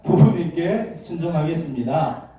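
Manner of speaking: a slow heartfelt vow, drawn out at the end; slow, sincere pledge. Shown as a demonstration. Congregation pledging to parents, slow and sincere. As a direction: say 부모님께 slowly, facing your parents. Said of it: "부모님 바라보면서 한번 이야기해 봅시다".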